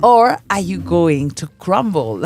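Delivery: a dramatic movie trailer voice. Pretend. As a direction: announce it like an action movie trailer. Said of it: "I'm saying it like a trailer for an action movie".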